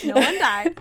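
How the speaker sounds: giddy correction to a worried friend; excited exclaim. Retold or imitated. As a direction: burst out that nobody died. Telling friend the news.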